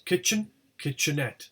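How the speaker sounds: KITCHEN on KIT, KITCHENETTE on ETTE; stress moves to suffix. Shown as a demonstration. Teacher showing stressed suffix, stress shifts to ETTE. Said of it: "the suffix is stressed".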